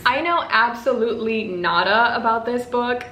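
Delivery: slipped into an English accent; light, unplanned English accent. Real, not acted. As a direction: say it like a Brit by accident. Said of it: "Why did I say that with an English accent?".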